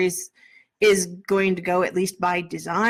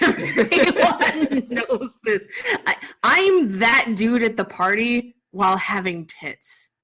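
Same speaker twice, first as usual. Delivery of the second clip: laughing. Real, not acted. Laughing self-mockery.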